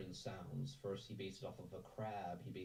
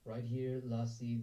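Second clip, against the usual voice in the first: Irish accent, pitched up and louder; 3 semitones higher, 7 dB louder, slower than usual. Shown as a demonstration. Voice actor demonstrating accents to the workshop, Irish accent. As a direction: put on a lively Irish lilt. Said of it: "this is the Irish accent".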